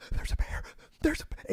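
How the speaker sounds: a touch of retold alarm, pitch jumping up; mock panic. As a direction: imitate her starting to freak out. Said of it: "she just starts freaking out".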